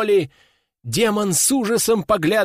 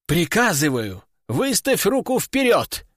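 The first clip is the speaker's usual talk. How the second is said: exclaimed order; 2 semitones higher than usual. Acted. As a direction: bark the command, pitch jumping up. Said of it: "воскликнул ученик".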